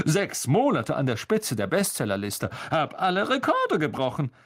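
lightly voiced vain boast with a laugh; Lockhart. Lockhart bragging about his bestseller record, lightly laughing. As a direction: chuckle through the brag.

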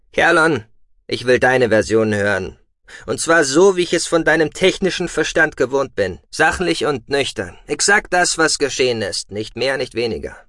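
loud, commanding stern father. Acted. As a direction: demand the facts firmly. Father demanding stern report.

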